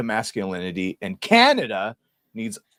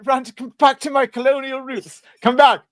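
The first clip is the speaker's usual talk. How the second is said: louder, higher taunting call; mock challenge; 11 semitones higher, 5 dB louder than usual. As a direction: shout after a fleeing foe.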